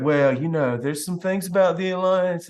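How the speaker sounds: imitated hedging complainer; mock wishy-washy grumbling; mealy-mouthed naysayer. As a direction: hem and haw like a fussy pants. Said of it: "these negative, mealy mouth, just fussy pants".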